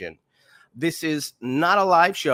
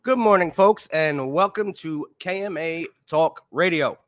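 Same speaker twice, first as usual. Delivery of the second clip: energetic greeting; 2 semitones higher than usual. Real, not acted. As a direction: open the show with punch. Host greeting listeners.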